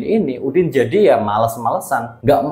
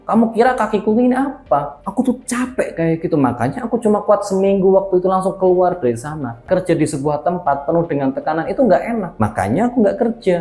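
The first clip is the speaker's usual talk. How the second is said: higher aggrieved whine; complaining husband; 6 semitones higher than usual. Acted. Udin justifying to wife why he quit, aggrieved. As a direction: plead how tired he was.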